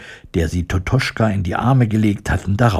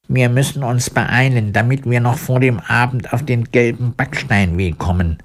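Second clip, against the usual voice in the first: tin woodman urging; 3 semitones higher than usual. Acted. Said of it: "sagte er".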